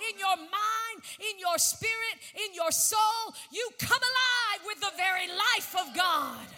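preacher rousing the church to come alive; building to a preaching shout. Acted. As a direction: build it until it bursts. Building sermon climax.

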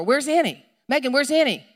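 acting a parent checking child after child; worried parent calling. Mother asks her kids where Annie is, worried calling.

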